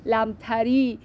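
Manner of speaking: "لمتری" said lam-ta-ri, A before the R; lamtari with fatha. Shown as a demonstration. Teacher showing the rhyme, "لمتری" pronounced lamtari with fatha. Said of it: "ولی اینجا با فتحه هم قافیه است".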